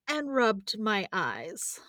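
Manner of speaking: drowsy, slow whisper; sleepy whisper. Acted. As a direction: whisper it like just waking. Waking up sleepily.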